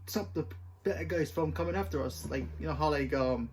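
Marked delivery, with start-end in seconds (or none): 0.1-2.3 Star Trek spoof voice. Retold or imitated. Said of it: "Where they talk like this".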